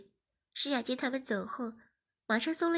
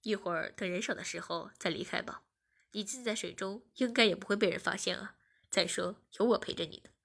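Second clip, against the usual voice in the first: put-on lower, gentle comforting boyfriend; reassuring; 4 semitones lower than usual. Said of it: "安慰道". (温柔安慰)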